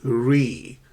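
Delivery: "re" alone, a long clear REE; "re" held as the strong syllable of refund; stressed first syllable. Shown as a demonstration. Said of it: "stress the first syllable".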